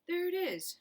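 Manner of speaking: high, loud excited shout. Acted. Someone else in the crowd shouting high and loud. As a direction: point and shout it out. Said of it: "shouted someone else".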